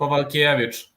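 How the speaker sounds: Kowalkiewicz as "ko-val-KYE-vitch". Shown as a demonstration. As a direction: repeat Kowalkiewicz as a model, with V sounds. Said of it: "the W is pronounced with a V".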